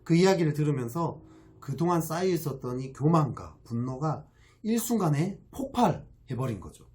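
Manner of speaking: ordinary talk, nothing marked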